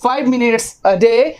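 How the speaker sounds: very slow, clear teacher model; slow model sentence. Shown as a demonstration. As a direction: say it slowly so students can copy. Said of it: "तो". (बहुत धीमा, साफ़ उच्चारण)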